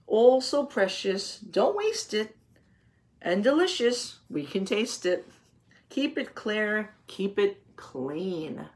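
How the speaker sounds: slow, sing-song rhyming read; reading a picture book. Acted. Teacher reading the closing rhymes to her class, slow and sing-song. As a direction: savor each rhyme for the children. Reads poem to children.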